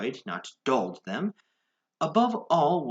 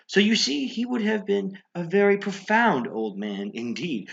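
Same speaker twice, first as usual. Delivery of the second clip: much higher and louder, gloating; gleeful outburst; 10 semitones higher, 5 dB louder than usual. Acted. Madman gloats to the listener about fooling the old man, gleefully. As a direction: crow with mad glee.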